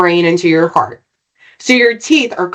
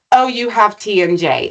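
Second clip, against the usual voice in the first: quick, even "T M J" with no weight; offhand diagnosis. Retold or imitated. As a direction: toss off "T M J" as a mere label. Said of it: "It's not".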